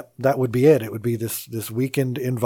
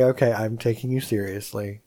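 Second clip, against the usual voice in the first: calm sincere promise; 4 semitones lower, 3 dB quieter than usual. Retold or imitated. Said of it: "I would say".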